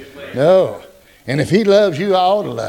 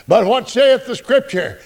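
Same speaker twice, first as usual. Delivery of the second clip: drawn-out preacher reading; slow solemn scripture question; slow scripture quote; 3 semitones higher than usual. Acted. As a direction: lean on saith slowly. Preacher quoting scripture slowly.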